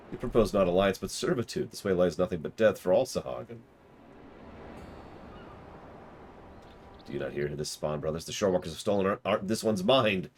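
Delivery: fish-man zealot, rising in anger; fanatical Sahagin preacher. Acted. Sahagin zealot stirring up his brothers, growing fervent. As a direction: rile up the Spawn Brothers.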